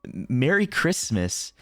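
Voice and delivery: slow, mumbled Merry Christmas; slow garbled waitress. Retold or imitated. Retelling what the waitress seemed to say, slow and mumbled. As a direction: draw it out like an unclear waitress. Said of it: "she was like".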